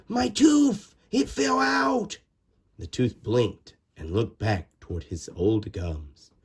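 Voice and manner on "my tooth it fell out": put-on high excited girl calling. Little girl calling to her mother, excited. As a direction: call out to mom thrilled. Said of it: "she cried".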